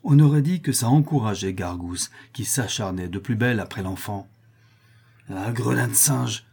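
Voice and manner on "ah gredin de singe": outraged exclamation. Acted. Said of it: "s'écria le bonnet bleu".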